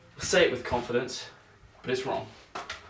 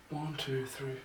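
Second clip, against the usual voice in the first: counting under breath; 9 dB quieter, slower than usual. Real, not acted. Counting catches quietly.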